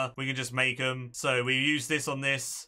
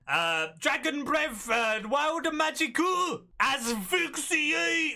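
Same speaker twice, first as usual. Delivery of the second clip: high, slow anime attack calls; anime boy voice; 9 semitones higher, much slower than usual. Acted. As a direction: call each attack like an anime hero. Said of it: "I don't know how to do an anime voice. I'm just making aggressive sounds".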